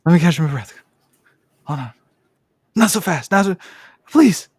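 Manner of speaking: breathless high pleading, building to squeals; porno chick. Pretend. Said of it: "Where you sound like the, the chick from any porno".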